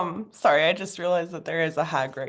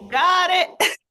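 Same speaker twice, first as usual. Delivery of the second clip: chirpy reply; 11 semitones higher, 8 dB louder than usual. Acted. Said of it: "Just be like".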